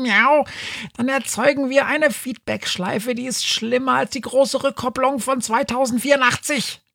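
high, fast pedantic cat; know-it-all cat voice. Acted. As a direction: rattle off the logic, high. Cat lectures on paradoxes.

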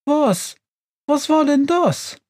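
very high, bewildered witch voice; stunned, unsure. A narrator's reading. Witch thrown into the snow by her stove, stunned. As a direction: squeak it in baffled dismay. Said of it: "stammelt die Baba Yaga".

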